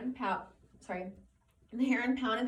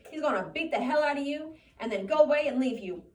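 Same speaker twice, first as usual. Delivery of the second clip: taunting rabbit; 5 semitones higher, 7 dB louder than usual. Acted.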